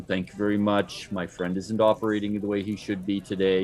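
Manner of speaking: lightly voiced calm monotone; flat, even, unhurried delivery; calm monotone Landis. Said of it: "Landis is always very calm, very monotone".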